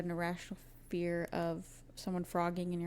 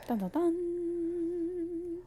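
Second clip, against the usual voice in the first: ominous sting; 10 semitones higher, much slower than usual. Pretend.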